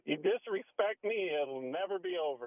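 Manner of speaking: lightly voiced stern coach; imitating coach Dino. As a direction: quote him half in character. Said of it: "You always said the same thing".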